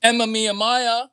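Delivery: loud, high name call. Pretend. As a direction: call the name out across the room. Calls out the name.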